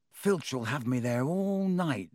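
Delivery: slow, weighed-down grumble; gloomy boy dreading detention; heavily. Acted. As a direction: sound resigned to a long night. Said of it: "said Ron heavily".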